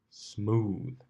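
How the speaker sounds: sarcastic drone. Acted. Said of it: "droned Blitz sarcastically".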